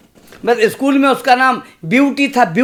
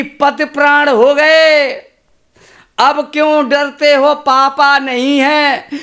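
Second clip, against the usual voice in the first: lightly voiced teasing wife, a bit louder, laughing at the end; smiling wife; 4 semitones higher, 4 dB louder, slower than usual. Wife teasing her husband after marriage, smiling and playful. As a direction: tease the husband with a grin. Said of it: "मुस्कुरा के बोली".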